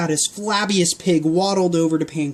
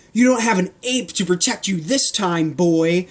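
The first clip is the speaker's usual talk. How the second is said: yelled; 2 semitones higher than usual. Acted. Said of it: "Carl the candy guard yelled".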